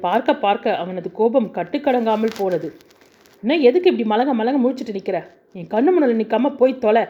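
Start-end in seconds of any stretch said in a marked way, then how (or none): 3.4-7.0 fast angry shout. Acted. Husband ordering his wife out of his sight, fast furious shout. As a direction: drive her out of the room, shouting. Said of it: "மீண்டும் சப்தமிட்டு".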